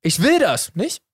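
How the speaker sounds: high "will", pause, "nicht" rising like "oder?"; questioning tag NICHT. Shown as a demonstration. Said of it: "So wie oder?".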